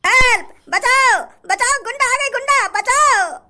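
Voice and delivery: high, hammed-up shrieks for help; mock panic. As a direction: play the terrified victim, half laughing. Victim keeps crying for help.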